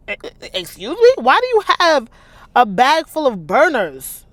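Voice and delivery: high, loud incredulous excuse me; stammering, floored by the news; stunned disbelief. Real, not acted. Reader reacts to burner phones.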